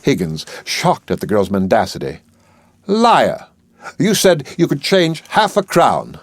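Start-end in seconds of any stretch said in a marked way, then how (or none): 2.9-6.2 accusing shout. Acted. Higgins accuses the flower girl.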